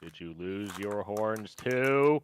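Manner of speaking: slow question. Acted. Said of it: "It's gonna get aggressively louder".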